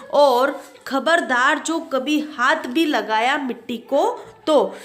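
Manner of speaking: mild angry warning to his daughter. Acted. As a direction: warn her off with a touch of anger. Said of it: "गुस्से में कहता है". (हल्के गुस्से में चेतावनी)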